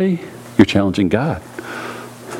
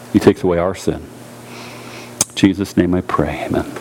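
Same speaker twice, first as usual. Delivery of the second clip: closing prayer; 5 semitones lower than usual. Real, not acted.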